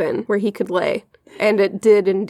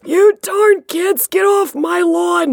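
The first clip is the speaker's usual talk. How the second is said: put-on cranky old man; 9 semitones higher, slower than usual. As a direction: shake your fist at the kids off your lawn. Grumpy old man bit.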